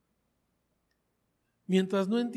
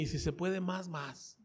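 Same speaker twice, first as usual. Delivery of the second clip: quiet inner thought; 6 dB quieter than usual. Retold or imitated. His ambitious inner thought.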